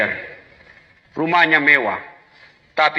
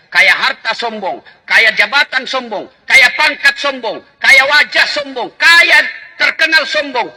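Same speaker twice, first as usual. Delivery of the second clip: building emphasis; 5 semitones higher, 4 dB louder than usual. Acted. Building rhetorical list.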